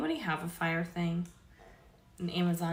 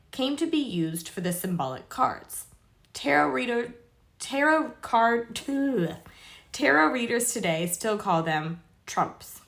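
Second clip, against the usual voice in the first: measured read-aloud of an article; 6 dB louder than usual. Real, not acted. Reading tarot history to viewers, read-aloud voice. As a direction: read it out to viewers, clearly projected.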